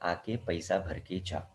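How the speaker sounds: soft, slow, coaxing plea; mock loving request. Company's final reminder to the student, softly coaxing. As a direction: gently coax him to come pay. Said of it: "बहुत प्यार से बोलेगा कि".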